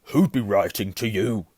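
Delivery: loud, contemptuous sneer. A narrator's reading. Uncle scorns nephew holding his letter, sneering. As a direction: sneer it loudly at the boy. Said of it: "sneered Uncle Vernon".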